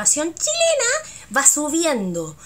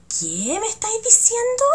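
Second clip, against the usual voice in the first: threatening question; 10 semitones higher than usual. Shown as a demonstration. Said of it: "casi amenazando".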